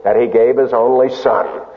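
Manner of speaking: slow, measured recitation of "God so loved the world"; slow Bible recitation; scripture reading. Shown as a demonstration. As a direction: read the verse reverently. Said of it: "You all know it".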